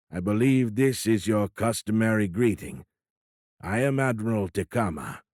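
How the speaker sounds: lightly voiced alien officer, stately and polite; a hint of a foreign admiral greeting a stranger; formal alien admiral. Alien admiral greeting Tony, lightly voiced formal alien accent.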